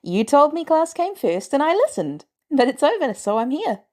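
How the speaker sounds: put-on a teenager justifying himself; youthful boy. The kid explains himself.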